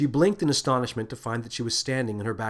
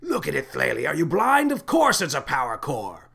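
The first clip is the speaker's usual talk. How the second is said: exasperated yell, peaking high and loud; incredulous, rising outburst; shouting; 4 semitones higher, 4 dB louder than usual. A narrator's reading. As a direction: shout it in disbelief. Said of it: "shouted the captain".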